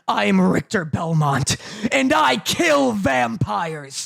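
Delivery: slow hammed-up hero line, ending in a shout; mock hero catchphrase. Mocking the hero's catchphrase to a friend, slow hammed-up shout. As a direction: growl the catchphrase like a cheesy action hero. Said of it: "and he'll be like".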